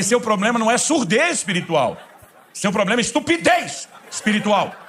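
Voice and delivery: high, loud, laughing through the words; laughing punchline. Real, not acted. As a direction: deliver the zinger while cracking up.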